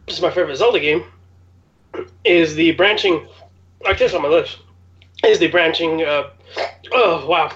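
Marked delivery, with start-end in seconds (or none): 2.2-7.5 talking through hiccups; hiccuping. Real, not acted. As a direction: hiccups breaking the words. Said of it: "I'm hiccuping like crazy".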